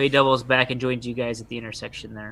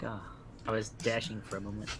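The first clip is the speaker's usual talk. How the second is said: softer, deflated delivery; mildly disappointed; 2 semitones lower, 10 dB quieter than usual. Acted. Player voicing a character whose nice hair moment fades, mildly disappointed. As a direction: let it sink with mild disappointment. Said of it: "he's kinda disappointed".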